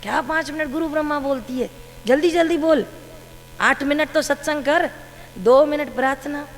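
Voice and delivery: guru scolding. Retold or imitated. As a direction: hurry her up like a stern teacher. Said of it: "डांट लगाई".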